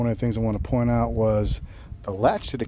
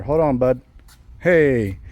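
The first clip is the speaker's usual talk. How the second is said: raised voice breaking off to someone nearby; calling out; 3 semitones higher, 7 dB louder, much slower than usual. Real, not acted. Vlogger stops his walkaround to call his buddy, raised call. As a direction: call over, a bit louder, mid-sentence.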